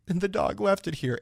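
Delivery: mock-mournful movie kids. Co-host mocking kids finding the dog's bone, mock-mournful. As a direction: drag it out like a melodramatic kid.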